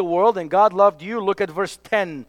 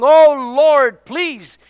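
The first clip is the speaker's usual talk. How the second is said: pleading prayer; 5 semitones higher, 4 dB louder, slower than usual. Retold or imitated. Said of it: "and saying".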